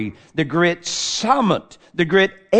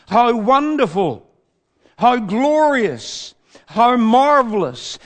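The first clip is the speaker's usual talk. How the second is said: rising wonder; 7 semitones higher, 6 dB louder than usual. Real, not acted. Preacher exulting in God's love.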